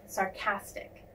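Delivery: sarcastic with the stress on CAS; stress on second syllable. Shown as a demonstration. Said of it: "emphasis is on the second syllable".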